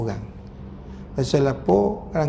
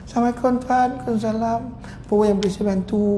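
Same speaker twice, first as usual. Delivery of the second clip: speaking nicely; 5 semitones higher, faster than usual. Shown as a demonstration. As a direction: greet a visitor kindly, offering help. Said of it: "cakap lah elok". (cakap elok dan sopan)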